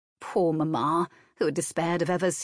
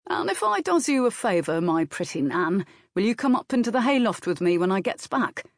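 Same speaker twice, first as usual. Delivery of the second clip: lightly voiced rustic groom, flirting; cheeky groom; 3 semitones higher than usual. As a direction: tease her with a grin in the voice. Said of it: "cheeky grin".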